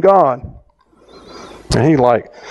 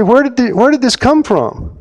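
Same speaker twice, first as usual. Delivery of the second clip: excited questioning; 10 semitones higher than usual. Retold or imitated. Retelling his own pressing question.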